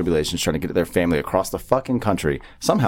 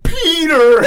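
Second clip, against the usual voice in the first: high, louder, laughing mock call; louder mock old-man cry; old dog's voice; 8 dB louder than usual. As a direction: call back to the boy, hammed up. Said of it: "this old man's voice is like".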